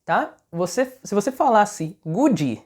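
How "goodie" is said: GOOD as "goo-djee", two syllables; mispronounced good. Shown as a demonstration. Teacher shows learners a common error, good mispronounced. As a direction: add an EE vowel to the end of "good". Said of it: "isso é um erro de pronúncia".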